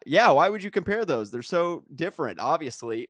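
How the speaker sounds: exaggerated mock disbelief; sarcastic. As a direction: feign total agreement, dripping with sarcasm. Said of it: "to stop being sarcastic for a moment".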